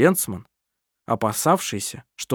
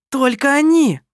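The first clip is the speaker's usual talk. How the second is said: spiteful jab; 13 semitones higher, 5 dB louder than usual. A narrator's reading. Kerstin adds spite.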